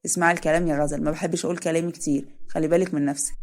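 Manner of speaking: a hint of the stern brother setting rules; lightly voiced firm Adham.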